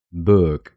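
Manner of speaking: book said slowly, held at the k; English pronunciation. Shown as a demonstration. Teacher models the word for learners, slowly. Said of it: "se pronuncia".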